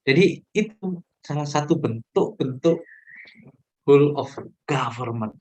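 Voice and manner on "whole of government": whole said as hul, silent W; teacher models whole without the W; say it right. Shown as a demonstration. Teacher models the right way for students: whole, W silent. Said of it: "nanti tolong ngucapinnya ya".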